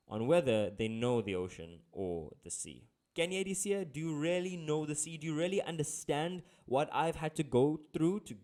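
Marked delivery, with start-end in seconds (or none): 3.1-8.3 raised-pitch, indignant rhetorical questions; hammed-up outrage at a customer; super angry fisherman. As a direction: demand it like a fed-up fisherman, dramatically. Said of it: "how I imagine, you know, the fisherman is feeling... super angry".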